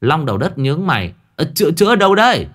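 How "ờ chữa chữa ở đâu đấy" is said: much higher, fast teasing question; mock curious. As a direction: needle him playfully. (Long Đầu Đất hỏi trêu, giọng rất cao)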